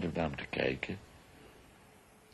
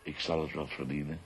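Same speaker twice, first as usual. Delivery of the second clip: normal talking voice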